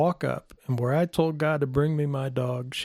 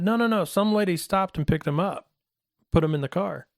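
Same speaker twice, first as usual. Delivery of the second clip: put-on urgent kid; 5 semitones higher than usual. Kid urgently correcting the others.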